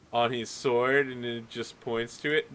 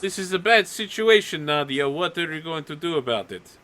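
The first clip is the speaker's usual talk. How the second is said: mildly raised, indignant townsperson; complaining villager; 3 semitones higher than usual. Acted. Villagers confront Nadia about the guards, mild indignation. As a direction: press a grievance for the crowd.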